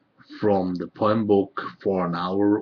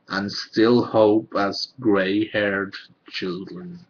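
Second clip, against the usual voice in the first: measured poem recital, pausing between phrases; poetry reading; 6 dB louder than usual. Acted. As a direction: read it as verse, line by line. Reads own poems aloud.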